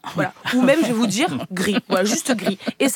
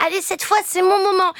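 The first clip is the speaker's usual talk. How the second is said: higher, eager little-object voice; the lonely mic hypes itself up, higher and eager; hopeful microphone; 7 semitones higher, faster than usual. Retold or imitated. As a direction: psych yourself up like a hopeful underdog. The forgotten microphone speaks.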